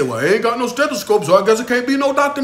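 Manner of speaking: mocking the student who never bought a stethoscope; mock excuse voice. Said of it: "You can't say".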